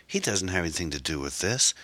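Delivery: mildly pleading woman's voice; understated desperate protest. Acted. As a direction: plead his innocence, lightly voiced. Erin pleads for Tom's innocence.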